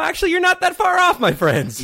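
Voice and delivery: a hint of old-master Japanese accent; lightly voiced wise Japanese master; Master Splinter Japanese accent. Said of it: "my Master Splinter accent".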